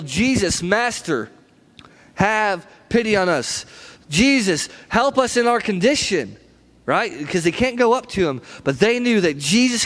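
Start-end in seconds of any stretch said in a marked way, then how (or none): 0.0-6.4 slow, drawn-out plea called across a distance; mild mock yell. Lepers outside town to Jesus, mild retold yell. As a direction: call out in spaced phrases, only lightly imitating a yell. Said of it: "They yell".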